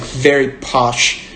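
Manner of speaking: slow, posh British accent; lightly put-on posh British. Shown as a demonstration. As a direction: draw it out in a posh Queen's speech accent. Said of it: "I'm going into this".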